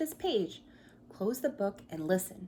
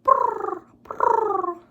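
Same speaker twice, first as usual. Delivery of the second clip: high, loud pigeon coos; pigeon purr; 12 semitones higher, 13 dB louder than usual. Shown as a demonstration. Inviting children to coo along, loud high pigeon purrs. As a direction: show the kids the pigeon sound, high and loud. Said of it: "Can you make that noise with me?".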